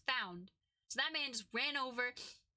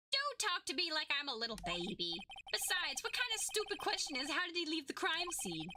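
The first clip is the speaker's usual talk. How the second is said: put-on higher, indignant kid voice; bratty protest; 3 semitones higher than usual. Witness refusing to be talked to like a baby, bratty protest. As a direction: object like an offended brat.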